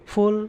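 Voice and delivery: फुल said on its own as a full syllable; isolated syllable. Shown as a demonstration. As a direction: set फुल apart as the last syllable. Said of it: "third syllable".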